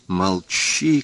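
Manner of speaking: plain reading voice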